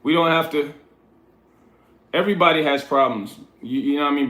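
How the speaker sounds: calm, gentle talk. Shown as a demonstration. Streamer reassures a struggling chatter, calm and gentle. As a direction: let him know it gently. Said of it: "But I'ma talk to him like this".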